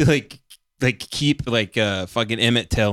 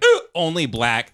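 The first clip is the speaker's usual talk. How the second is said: hiccuping through the words; words broken by hiccups; 4 semitones higher than usual. Real, not acted. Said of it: "I have the hiccups again".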